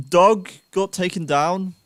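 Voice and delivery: slow, playful attempt at Scottish; Scottish accent. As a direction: try out a Scottish accent, drawn out. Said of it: "is that a good Scottish accent".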